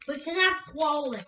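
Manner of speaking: talking through chewy candy; mouth full. Real, not acted. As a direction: say it while chewing. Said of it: "chew it down like this".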